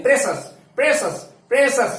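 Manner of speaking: প্ৰেচাছ repeated as pre-sas; corrected pre-sas model of প্ৰেচাছ; two-syllable pronunciation. Shown as a demonstration. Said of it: "প্ৰেচিয়াছ নহয়".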